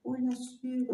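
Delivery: "Hola, sí" mumbled through a barely open mouth; "Hola, sí" muffled, vowels squashed and unclear; closed articulation. Shown as a demonstration. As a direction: say "Hola, sí" with the jaw nearly shut. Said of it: "La articulación cerrada".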